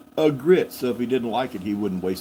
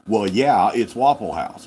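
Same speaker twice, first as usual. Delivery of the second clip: louder, duh-obvious mock reply; exasperated tone; 7 dB louder, slower than usual. Waitress answering the tourist with an exasperated duh tone. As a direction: make it sound like the answer is obvious. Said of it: "you could tell the tone of voice".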